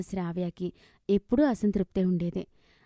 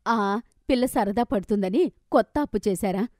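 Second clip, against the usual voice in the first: irritated scolding. Acted. Wife scolding husband for spoiling daughter, irritated. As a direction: scold him for spoiling her.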